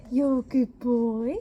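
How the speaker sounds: slow, drawn-out pet praise; lingering praise for a pet; praising a dog. Real, not acted. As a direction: croon it slowly to the dog.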